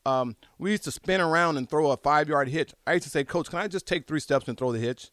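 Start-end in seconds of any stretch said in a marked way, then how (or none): none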